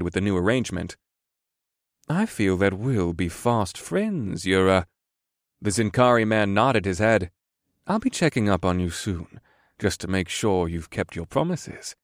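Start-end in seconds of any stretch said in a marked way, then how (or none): 2.1-12.0 sly smooth merchant. Acted. Sly merchant voiced in story.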